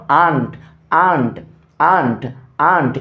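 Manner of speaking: "aren't" as "aant", repeated with pauses; pronunciation drill. Shown as a demonstration. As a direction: drill "aren't" as one falling syllable, no r. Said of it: "একটা word কয়েকবার করে উচ্চারণ করা".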